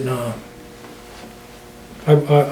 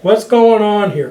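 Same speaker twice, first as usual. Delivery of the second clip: mock captain's question; 5 semitones higher, 3 dB louder than usual. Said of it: "And go".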